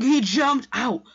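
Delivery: loud, high, drawn-out exclamation; stretched high cry of amazement; shocked yell. Retold or imitated. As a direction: yell it slowly in disbelief. Re-enacting his own shocked reaction.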